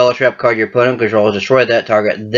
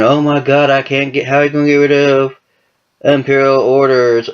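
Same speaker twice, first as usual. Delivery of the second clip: imitating complainers, higher-pitched moaning; mock whining; 4 semitones higher than usual. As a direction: whine it like an exasperated complainer. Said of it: "everyone's bitching and moaning".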